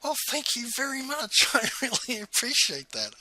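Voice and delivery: high-pitched imitation of her, taken aback; stunned gratitude. Forum leader thanking him for the compliment, stunned. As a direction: act out stunned thanks in a lifted, put-on voice. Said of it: "looked at me stunned and went".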